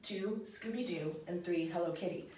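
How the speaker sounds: teacher counting items one by one; counting off the list. Shown as a demonstration. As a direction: tick off each item deliberately. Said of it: "this is telling us that I love".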